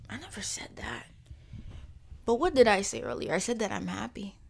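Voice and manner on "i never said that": whispered aside. Real, not acted. Private aside, repeated denial.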